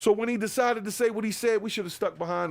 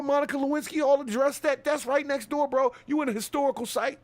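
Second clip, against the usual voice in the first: higher, pushy telling-off; mock presidential scolding, raised and hot; indignant rant; 5 semitones higher than usual. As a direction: lay into a foreign leader, heated. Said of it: "I would've probably talked like that".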